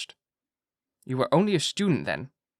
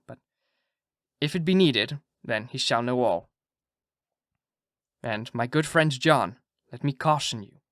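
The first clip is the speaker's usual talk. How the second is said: put-on Dutch accent. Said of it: "my Dutch accent".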